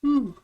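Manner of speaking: a loud, high yawn that breaks out; big yawn. Real, not acted. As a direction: yawn out loud before speaking. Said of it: "Sorry about yawning".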